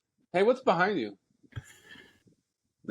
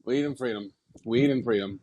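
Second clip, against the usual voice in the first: stoner Rain Man; 2 semitones lower than usual. Pretend. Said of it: "you sound like a stoner Rain Man".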